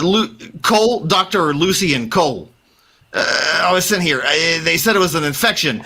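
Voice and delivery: a doctor warning about the church; frightened doctor. Acted. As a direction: stammer out the warning in fear. GM holds frightened NPC voice.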